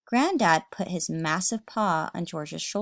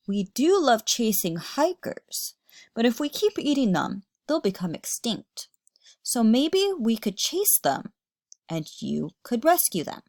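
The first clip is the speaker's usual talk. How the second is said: gruff yeti dad; 3 semitones higher than usual. Acted. Dad to George, gruff but kind.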